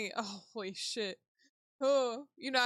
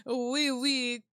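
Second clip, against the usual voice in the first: loud, hammed-up French; badly faked French between giggles; bad French accent; 3 semitones higher, 6 dB louder than usual. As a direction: attempt a silly French accent and fail. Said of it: "I don't know what a French accent is".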